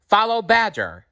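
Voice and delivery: high, loud scold. A narrator's reading. Mother rabbit scolding her babies, a high loud scold. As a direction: tell the little ones off. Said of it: "their mother scolded".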